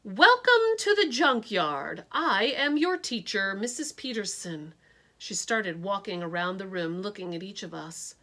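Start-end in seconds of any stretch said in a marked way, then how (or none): 0.0-4.7 stern teacher. Acted. Stern teacher introduces herself.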